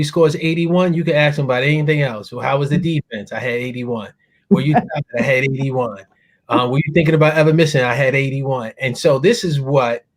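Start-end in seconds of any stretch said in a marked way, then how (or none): 2.3-8.7 flat repeated answer to every question; mock Kobe interview. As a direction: answer each question the same, deadpan. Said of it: "I call it the Kobe Bryant interview".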